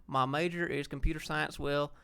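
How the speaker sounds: reading a viewer comment in a light Georgia drawl, slow; a slow Georgia accent, only lightly done. Shown as a demonstration. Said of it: "I'm gonna read the rest of it like people in Georgia talk".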